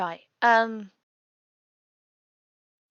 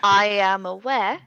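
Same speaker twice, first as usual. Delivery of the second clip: laughing; 8 dB louder than usual. Real, not acted. Laughing at the gems slip.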